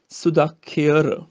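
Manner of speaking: ਸੁਦਾਖਿਅਰ slowly as su-da-khi-ar; ਸੁਦਾਖਿਅਰ ਹੌਲੀ ਉਚਾਰਨ; slow careful pronunciation. Shown as a demonstration. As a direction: spell out ਸੁਦਾਖਿਅਰ syllable by syllable. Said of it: "ਖੱਖੇ ਨੂੰ ਸਿਹਾਰੀ ਅੱਗੇ ਐੜਾ".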